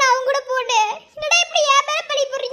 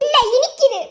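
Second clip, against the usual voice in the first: louder, biting sarcasm; sarcastic retort; 5 dB louder than usual. Acted. Injured girl snaps sarcastically at sister-in-law. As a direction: snap back with mock sweetness.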